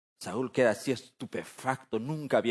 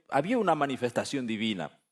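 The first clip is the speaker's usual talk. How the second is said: normal talking voice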